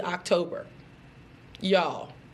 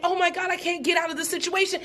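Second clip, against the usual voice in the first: mock panicked plea; 6 semitones higher, faster than usual. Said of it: "you find yourself saying".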